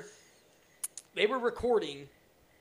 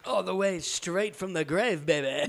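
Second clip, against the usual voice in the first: wrestling promo; 2 semitones lower, 3 dB quieter, slower than usual. Pretend. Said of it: "good old wrestling voice".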